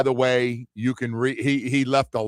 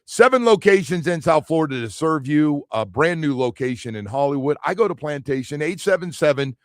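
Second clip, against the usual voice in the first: live ad read; 3 semitones higher, 3 dB louder than usual. Acted. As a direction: sell the clinic like a host endorsement. Host does live ad read.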